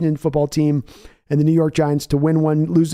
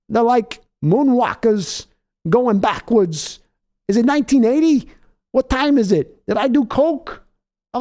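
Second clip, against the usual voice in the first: high, slow put-on coach voice talking to Al; walk impression; 8 semitones higher, slower than usual. Co-host mocking the team to Al in a high put-on voice. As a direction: drag the words out in a high mock voice. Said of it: "My walk impression's only good for grumbling".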